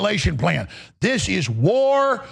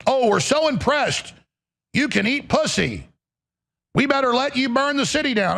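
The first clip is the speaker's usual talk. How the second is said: higher, sneering fake admiration; mock being impressed, dripping sarcasm; sarcastic mock praise; 4 semitones higher than usual.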